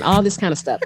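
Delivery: usual speaking voice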